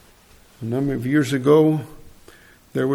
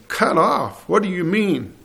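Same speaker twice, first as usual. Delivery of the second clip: retold alarmed disbelief; 5 semitones higher than usual. Driver to doctor ordering amputation, in high-pitched disbelief. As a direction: imitate startled, high-pitched questioning. Driver hears finger must go.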